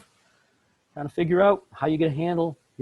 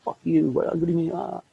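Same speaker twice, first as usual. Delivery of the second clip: mock anger; 5 semitones higher than usual. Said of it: "which then moves into anger".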